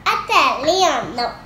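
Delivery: lightly put-on Italian accent; a child's go at an Italian accent. Shown as a demonstration. Child showing off on request, mild Italian accent. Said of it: "Can you talk in your Italian accent?".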